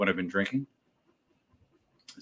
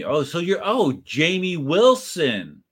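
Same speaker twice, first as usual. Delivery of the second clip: high-pitched surprised realization; drawn-out "oh", as the name finally clicks; dawning recognition; 8 semitones higher, 4 dB louder, slower than usual. Real, not acted. Streamer realizing who chatter Wilson is, surprised recognition.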